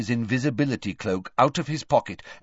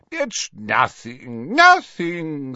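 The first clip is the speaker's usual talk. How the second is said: put-on slow, high, indulgent old man; jovial old professor; 7 semitones higher, 6 dB louder, much slower than usual. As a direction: grant a favour with relish.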